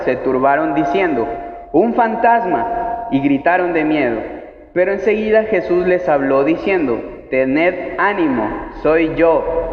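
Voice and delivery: measured, deliberate Bible reading; scripture reading. A narrator's reading. Reading the Gospel story to the congregation, measured scripture reading.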